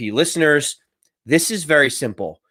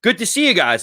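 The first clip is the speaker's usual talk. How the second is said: imitated pointed second attempt, higher; repeated farewell; 4 semitones higher than usual. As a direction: say it up at them, fishing for a reply. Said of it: "he looks back up after he picks his stuff up".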